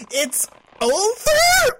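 high, loud, slow mocking laugh through the words; bitter laugh. Dumped girlfriend laughing bitterly at her boyfriend's breakup text. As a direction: laugh it out bitterly, half-unhinged.

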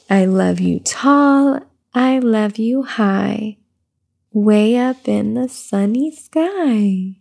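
slow sing-song read-aloud; reading to baby. Acted. Mother reading a rhyming book to her baby, slow sing-song. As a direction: lilt the rhyme gently for the baby.

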